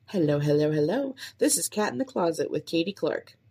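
bright sing-song host greeting; upbeat podcast intro. Shown as a demonstration. Podcaster testing her intro, upbeat host voice. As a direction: pitch it like an energetic show opener.

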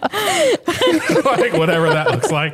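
high, laughing through words; can't stop laughing; laughing hard. Real, not acted. Host picturing the scene, high laughing.

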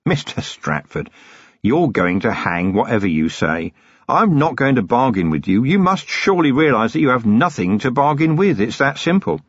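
lightly voiced weary copper, cold threat; a hint of a hard-bitten watchman; Vimes, grim and controlled. Vimes rejects the bargain.

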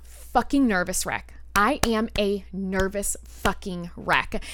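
slow, deliberate word-by-word emphasis; measured, weighty repetition. Real, not acted. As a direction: spell out the state slowly. Emphasising her state by slowing.

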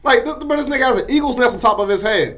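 high, loud, laughing through the words; giggling while mocking John's hair; laughing roast. Real, not acted. Teasing his coworker about John, laughing high.

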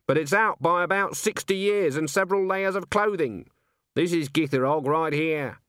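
high-voiced witch, brisk and certain; Granny. A narrator's reading. Witch vouches for her friend to the publisher, high and assertive. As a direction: state it firmly as the imperious witch.

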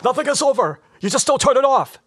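high, loud, strained Rambo yell; Stallone impression. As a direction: shout it like a broken soldier. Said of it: "how does that go".

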